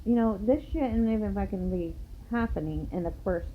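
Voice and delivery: emphatic reprimand, pitch rising near the end; indignant lecture with punched words; retold scolding. Acted scolding of the couple.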